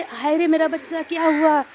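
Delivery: high, loud alarmed cry of a mother; imitating the mother-in-law crying out in fright; frightened wail. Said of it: "बोली ना".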